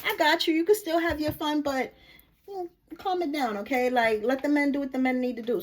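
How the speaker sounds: lightly voiced calm guide; a gentle hint of the divine soothing. Divine spirit calming the excited reader, lightly gentle. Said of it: "the divine is letting me know".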